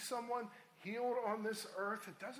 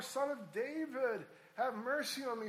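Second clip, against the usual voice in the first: higher, insistent plea, mildly raised; crying out more; 5 semitones higher, 3 dB louder than usual. Acted. Blind beggar calling to Jesus despite rebukes, crying out more. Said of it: "cried out all the more".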